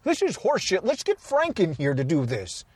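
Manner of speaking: fed-up Henson. Retold or imitated. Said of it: "Jim Henson saying".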